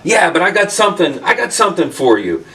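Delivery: bubbling over with eagerness; retelling an eager friend; excited. Retold or imitated. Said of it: "He's all excited".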